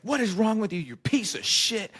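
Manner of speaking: high, mock-furious cursing outburst; like a singer. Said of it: "He had some pent-up anger".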